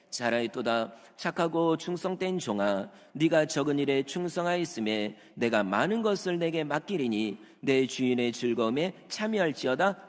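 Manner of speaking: loud, measured Bible reading; scripture reading. Acted. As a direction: proclaim the verse. Reads scripture aloud.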